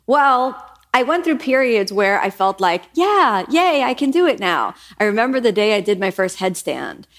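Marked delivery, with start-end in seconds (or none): 2.9-4.7 gleeful yay. Retold or imitated. Celebrating her first headstand, gleeful. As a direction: squeal a little triumph. Excited self quote of success.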